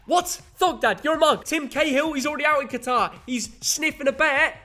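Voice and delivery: hammed-up Aussie-Cockney bloke; Cockney accent. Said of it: "why are you doing a Cockney accent".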